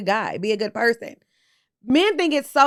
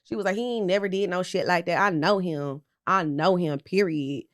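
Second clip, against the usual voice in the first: mock Diane Keaton; 4 semitones lower, 5 dB quieter than usual. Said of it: "she said it just like this".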